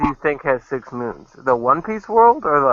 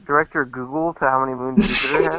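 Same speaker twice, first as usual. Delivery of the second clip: polite cabin announcement voice; like a flight attendant addressing passengers. Acted. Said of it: "dude sound like a flight attendant".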